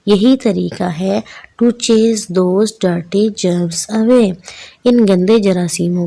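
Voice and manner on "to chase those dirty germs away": slow, deliberate poem recitation; poem read aloud. Shown as a demonstration. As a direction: recite it slowly, word by word, for the children. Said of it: "ऊंची आवाज़ में पढ़ना". (कविता ऊंची आवाज़ में, धीरे-धीरे पढ़ते हुए)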